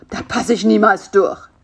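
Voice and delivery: a modest cry of dismay; mild exclaim. A narrator's reading. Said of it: "rief Karl-Heinz".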